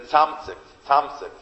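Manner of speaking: Tzamzik, Tzamzik with the v left out; mispronounced twenty. Retold or imitated. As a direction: repeat Tzamzik the way he mangles Tzvanzik. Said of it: "couldn't for the life of him pronounce Tzvanzik".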